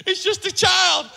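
a hint of a soft mom pleading with dad; mock pleading mom. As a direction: coax like a doting mother. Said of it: "moms ... You're like".

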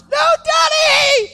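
high, drawn-out shout; daughter's scream. Retold or imitated. Daughter screaming at her father leaving, high long shout. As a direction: scream it like a desperate little girl.

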